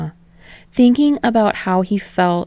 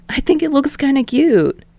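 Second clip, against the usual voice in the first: higher, coaxing and sweet; appeasing; 9 semitones higher than usual. A narrator's reading. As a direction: soothe him. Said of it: "trying to sound appeasing".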